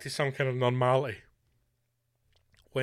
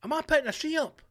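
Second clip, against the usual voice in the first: self-questioning; 11 semitones higher, faster than usual. Retold or imitated. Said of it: "say yourself".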